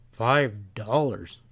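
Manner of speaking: slow sharp echo, weight on Five. Acted. Pat echoing the stableman's steep price, sharp disbelief. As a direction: throw Five back at him in disbelief. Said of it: "Pat echoed sharply".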